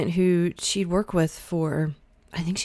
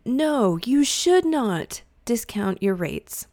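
slow, deliberate, emphatic refusal; firm advice, spelled out slowly; 4 semitones higher, slower than usual. Real, not acted. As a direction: lean hard on "No" and "should not". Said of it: "and say emphatically".

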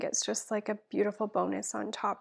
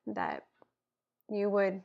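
earnest spoken prayer, dropping to a hush at times; heartfelt prayer; slower than usual. Acted. Guest praying for listeners, earnest prayer voice. Prays aloud on podcast.

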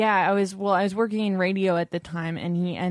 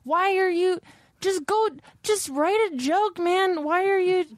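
higher, worked-up outburst; exasperated rant; 10 semitones higher than usual. Real, not acted. Podcaster venting at Steve Martin about his books, higher exasperated rant. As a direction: pitch climbing as frustration boils over.

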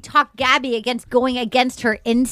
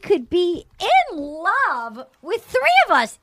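mock crying Rachel; 7 semitones higher than usual. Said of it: "She's like".

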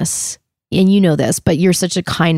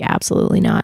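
flat refusal; faster than usual. Retold or imitated. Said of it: "And I was like".

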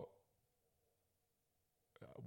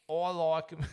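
higher, louder put-on voice; mock woman contestant; 7 semitones higher, 6 dB louder than usual. Voicing a female contestant, hammed-up swooning. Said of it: "Can you do a voice?".

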